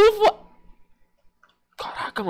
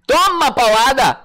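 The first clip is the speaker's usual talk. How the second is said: triumphant slow taunt; 2 semitones higher, 4 dB louder, slower than usual. Real, not acted. Lands big hit.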